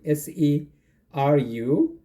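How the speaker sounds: spelling out Seru letter by letter; each letter said on its own; spelled out. Shown as a demonstration. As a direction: spell the town's name slowly, letter by letter. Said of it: "You could see it".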